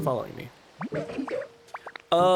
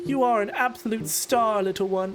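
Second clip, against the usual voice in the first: put-on higher, genteel elderly lady voice; gracious Lapras; 4 semitones higher than usual. Streamer reads Lapras greeting Ditto, a gracious elderly lady. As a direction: play a kindly refined old sea creature.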